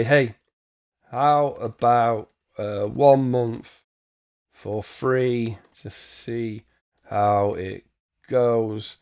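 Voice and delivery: slowly spelling out words while typing; slow dictation. Real, not acted. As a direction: drag each word out as you type.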